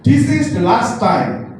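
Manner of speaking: slow, deliberate English threat; a hint of a villain drawing out his words; menacing devil. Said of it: "dia bilang".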